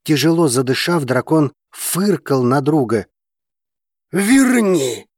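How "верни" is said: loud, high stubborn demand; insist, refusing to back down. A narrator's reading. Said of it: "упрямо требовал он".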